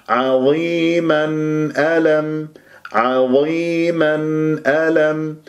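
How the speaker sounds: slow recited عظيما with audible n before ألم; clear izhar. Shown as a demonstration. Teacher modelling izhar, clear nun in عظيما ألم. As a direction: finish عظيما on a clean n, then hamza of ألم. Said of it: "لازم أسمع الإظهار".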